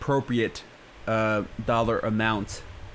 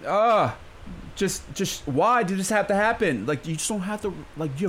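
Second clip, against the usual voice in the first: high incredulous pleading; exasperated; 6 semitones higher than usual. Real, not acted. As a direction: throw your hands up in disbelief. Ranting about Breitbart article.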